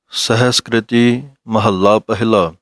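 ਸਹਿਸਕ੍ਰਿਤੀ said with full ਕ੍ਰਿਤੀ, ਮਹੱਲਾ with doubled ਲ; careful Gurbani reading of ਸਹਿਸਕ੍ਰਿਤੀ ਮਹੱਲਾ ਪਹਿਲਾ; correct recitation. Shown as a demonstration. Teacher showing students the correct reading, careful recitation. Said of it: "ਸਹਿਸਕ੍ਰਿਤੀ ਪਾਠ ਪੜ੍ਹਨਾ ਹੈ".

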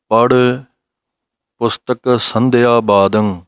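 slow, careful chanting of scripture; slow recitation. Shown as a demonstration. Teacher reciting the Gurbani line for students, slow recitation. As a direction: recite each syllable slowly and clearly. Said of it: "ਜਿਵੇਂ ਪੜ੍ਹਿਆ ਹੈ".

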